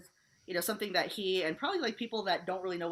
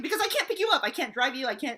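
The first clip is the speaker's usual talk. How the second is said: imitating Dave, frantic; 7 semitones higher, 5 dB louder, faster than usual. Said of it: "He was like".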